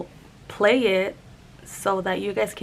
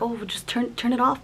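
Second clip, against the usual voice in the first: retold mild request; 3 semitones higher than usual. Asking Dad to switch the noise off, mild retold request. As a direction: brush it off lightly, hesitating on "turn".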